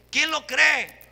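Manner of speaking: rally the congregation; preaching call. Real, not acted.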